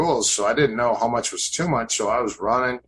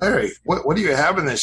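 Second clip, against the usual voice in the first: retold surprise; 6 semitones higher, 3 dB louder, faster than usual. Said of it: "And I go".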